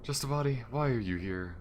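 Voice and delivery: high, loud disbelieving question; can't believe it's only a body; shocked question. Real, not acted. Finding a corpse on the ship, questioning it: high, loud and disbelieving.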